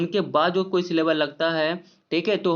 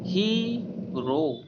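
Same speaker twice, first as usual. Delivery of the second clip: "हीरो" as a long "ही", pause, then "रो"; teacher's drawn-out "ही... रो"; split syllables; 4 dB quieter, much slower than usual. Shown as a demonstration. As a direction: break "हीरो" in two, very slowly. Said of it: "दूसरा हमारा syllable लगा है रो".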